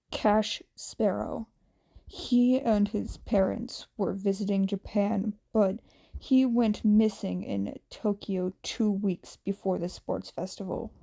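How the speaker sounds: a hint of a grim, weary teacher; understated stern hero reporting bad news; gruff Aizawa. Aizawa gives the details.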